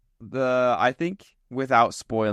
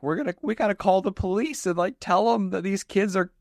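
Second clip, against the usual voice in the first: higher, fast put-on country voice; worried hick; 8 semitones higher than usual. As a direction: rush the words like a fretting bumpkin. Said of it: "Dale's like".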